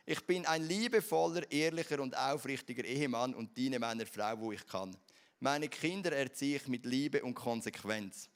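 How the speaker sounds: measured creed-like reading with firm stresses; recited declaration. Acted. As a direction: proclaim each sentence, starting strong and falling away. Recites morning declaration in High German.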